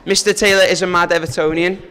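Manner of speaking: "mad" given extra weight; stress on mad. Real, not acted. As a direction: lean on the word "mad". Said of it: "emphasis on the word mad".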